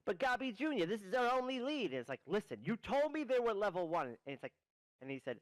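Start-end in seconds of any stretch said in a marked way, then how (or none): 0.0-4.1 much higher, whining protest; higher whiny goblin. Acted. Goblin pleading with Gobby Junior, higher and whiny. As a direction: whine about losing the only lead. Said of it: "He's like".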